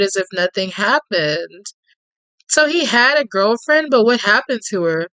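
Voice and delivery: even, lightly dramatic storytelling read; story narration. A narrator's reading. Narrating Tate's menace to the listener in a gentle storyteller read. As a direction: draw the listener into the tale.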